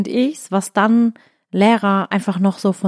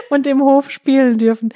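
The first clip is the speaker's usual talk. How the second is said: put-on eager little girl; 5 semitones higher, 4 dB louder than usual. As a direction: play the child who loves school. Mother voices daughter.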